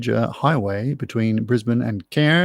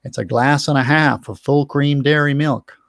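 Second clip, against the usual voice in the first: American accent impression; 4 semitones higher, 4 dB louder than usual. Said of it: "in his very distinctive American accent".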